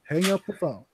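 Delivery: retold urgent call to hang up; urgent warning. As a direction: urge her to hang up now. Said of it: "And I went".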